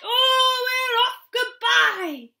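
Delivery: very high, loud gleeful farewell; triumphant cheer. A narrator's reading. Gnomes flying off on the chair, triumphant cheer. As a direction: crow goodbye as you fly.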